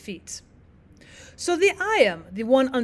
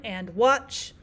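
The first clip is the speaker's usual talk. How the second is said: weak and, strong WATCH; iambic stress. Shown as a demonstration. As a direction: land the stress on watch after a light and. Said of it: "unstressed syllable, stressed syllable".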